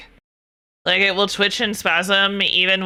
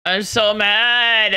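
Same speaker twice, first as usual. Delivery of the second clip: drawn-out, half-joking complaint; mock mad; 2 semitones higher, much slower than usual. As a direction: stretch it out slowly in pretend anger. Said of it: "not actually".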